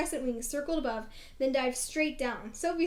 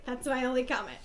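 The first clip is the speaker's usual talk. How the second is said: ordinary talk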